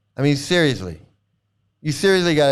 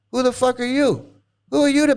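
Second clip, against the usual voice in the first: sharp, higher angry challenge; 7 semitones higher than usual. Real, not acted. Streamer angrily confronting a chatter who cussed. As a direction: demand to know who they are.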